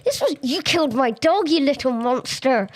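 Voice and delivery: hammed-up indignation at the zombie; mock outrage. Real, not acted. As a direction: tell off the little monster in mock fury. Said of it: "I'm furious".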